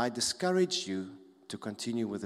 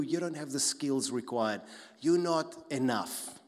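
critical voice; 4 dB louder than usual. Pretend. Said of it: "The critical voice".

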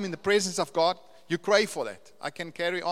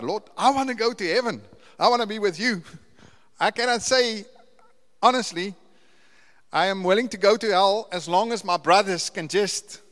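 impassioned retold prayer; 4 semitones higher, 6 dB louder than usual. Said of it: "I'm like".

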